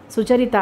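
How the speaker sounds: సుచరిత spelled out syllable by syllable, each pressed; each syllable stressed. A narrator's reading. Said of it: "ఒక్కో అక్షరమే వత్తి పలుకుతూ అంది".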